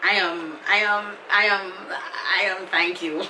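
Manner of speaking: choked, laughing thanks; laughing emotionally. Real, not acted. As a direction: voice breaking into laughter as she thanks them.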